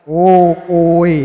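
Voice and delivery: loud confronting snap; angry retort. Retold or imitated. Pilgrim catching the follower copying his chant, loud and angry.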